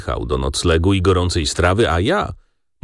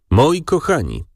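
groaning; 8 semitones higher than usual. Acted. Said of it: "jęczał Liptak".

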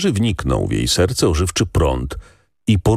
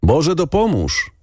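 greeting the reapers; 11 semitones higher than usual. A narrator's reading. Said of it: "pozdrowiła pracujących".

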